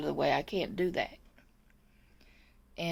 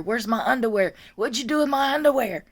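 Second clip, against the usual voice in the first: louder mock demand, rising in pitch; imitated yelling; 2 semitones higher, 5 dB louder than usual. Aide translates the patient's demand, mock yelling. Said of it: "she was yelling at me".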